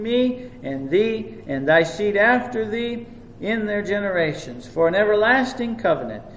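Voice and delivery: measured, solemn reading of the Bible passage; scripture reading. Acted. Preacher reading Genesis aloud to his church, solemn and measured. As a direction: read the verses out to the congregation with weight.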